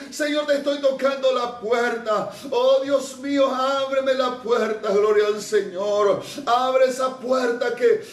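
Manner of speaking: crying out to Jesus for help; a fervent plea in prayer; pleading prayer. Acted. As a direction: beg God to open the door. Preacher acts out a prayer cry.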